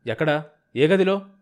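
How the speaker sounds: heated, impatient questioning; angry demand. A narrator's reading. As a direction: demand it with wounded fury. Humiliated officer demands the room.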